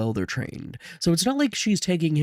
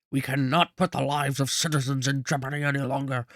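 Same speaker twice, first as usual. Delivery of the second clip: lightly voiced Churchill-style statesman; measured wartime-leader impression, lightly done; Churchillish voice. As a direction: give it a touch of Churchill oratory. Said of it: "do my Churchillish voice".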